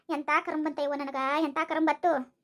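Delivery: low-pitched self-pitying moan; resigned, sinking complaint; weary lament. Acted. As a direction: bewail your luck in a low voice. Wife laments her fate.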